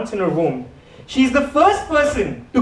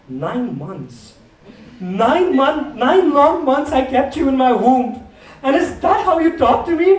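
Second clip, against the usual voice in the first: mock guilt-tripping mom; 3 semitones higher, slower than usual. Mom guilt-trips about pregnancy.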